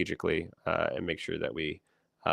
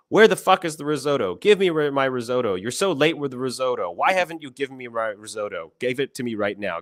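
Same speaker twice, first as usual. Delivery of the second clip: high, loud yelling head chef; imitated kitchen tirade, much louder and higher; screaming chef; 6 semitones higher, 7 dB louder than usual. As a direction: bellow at the cook for his risotto. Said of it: "the chef is screaming at the Italian and he goes".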